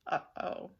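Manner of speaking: put-on breathy kids' whisper. A narrator's reading. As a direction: whisper it in worry. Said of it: "whispered the kids".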